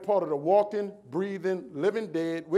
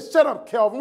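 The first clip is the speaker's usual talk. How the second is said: sharp teacher retort; 4 semitones higher, 7 dB louder than usual. Retold or imitated. Teacher cuts him off.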